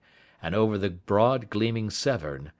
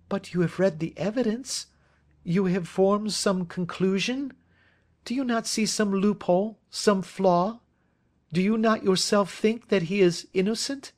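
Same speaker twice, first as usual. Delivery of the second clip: put-on higher, earnest young woman; young woman pleading for her friend, higher and earnest; Miss Turner voice; 12 semitones higher than usual. A narrator's reading. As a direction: plead his innocence, pitched up and eager.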